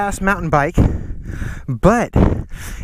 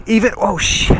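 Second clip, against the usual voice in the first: surprised; 4 semitones higher than usual. Real, not acted. Spots a lizard suddenly.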